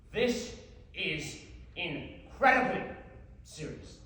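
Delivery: slow, dropping to a hush; deadpan gravity, word by word; mock solemn. Warning the audience before a tragic tale, mock solemn.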